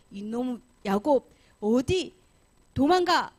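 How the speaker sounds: slow, rising angry challenge; acted angry shout after a fugitive; angry pursuer. Uncle chases down fleeing Jacob.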